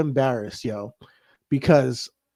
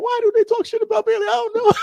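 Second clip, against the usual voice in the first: much higher, fast, choked-up fan; hammed-up teary fan whine; emotional; faster than usual. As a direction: ask it like you're about to cry. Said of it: "I started getting emotional".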